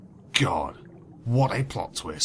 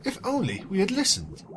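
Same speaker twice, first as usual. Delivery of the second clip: mild mock weeping; 7 semitones higher than usual. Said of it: "she wept".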